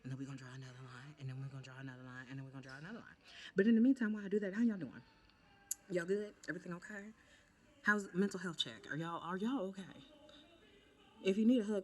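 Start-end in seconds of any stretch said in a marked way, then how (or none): 3.6-9.9 high excited check-in. Real, not acted. Makeup vlogger checks on viewers. 11.2-11.8 loud sudden offer. Real, not acted. Offering viewers a hug.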